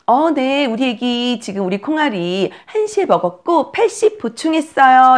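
high, lilting helpful answer; nursery nurse replying. Pretend. Nursery nurse reporting feeding times to a mother, high obliging reply. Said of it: "이렇게 선생님이 얘기하시면".

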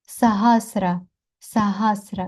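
Сагасра with every vowel short; all short syllables. Shown as a demonstration. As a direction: say Сагасра evenly, no vowel stretched. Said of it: "все коротке".

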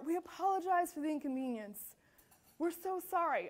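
insincere customer-service apology; scripted apology. Acted. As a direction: recite it as if reading from a script. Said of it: "you're reading from a script".

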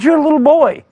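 high-pitched, dismissive objection; incredulous soldiers. Retold or imitated. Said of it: "They said".

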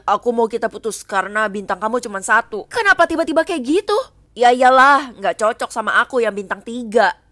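put-on low boyfriend voice. Boyfriend dumping her.

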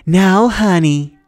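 high, very slow, syrupy menace; menacing teacher. Acted. Mrs Dodds to Percy, slow sugary threat. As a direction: drag it out with fake sweetness.

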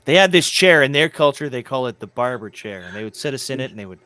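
loud then dropping low, mocking; mocking retelling. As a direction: ham up the victim's story, then sink low. Mocking the man's story.

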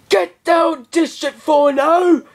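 retold shout. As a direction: bark the order at friends. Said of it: "I was like".

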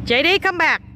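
high-pitched call to come back. Real, not acted. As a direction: call after someone running off, pitched high. Calling to one running off. (gọi với theo, giọng cao)

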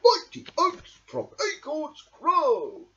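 high, spoken not sung; spoken proverb. A narrator's reading. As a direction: say the proverb warmly. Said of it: "said Badger".

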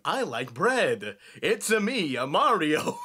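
lightly imitated cartoon character, slow start; slow down into a hint of cartoon oddball; Tad Strange. Host picturing a Gravity Falls dude doing Mario, light impression. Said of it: "Uh, Tad Strange. Just sitting there going".

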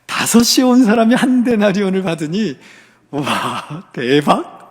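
acted amazement at a windfall; wide-eyed wonder, played out; amazed. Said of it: "내심 놀라면서 기대합니다".

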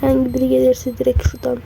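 soft, hoarse, nearly whispered. Real, not acted. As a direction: keep it hushed and hoarse from illness. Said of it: "O yüzden birazcık kısık sesle konuşmaya".

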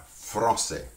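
"Français" with a tongue-tip rolled R. Shown as a demonstration. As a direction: say "Français" slowly, rolling the R toward the tongue tip. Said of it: "just try rolling your R's".

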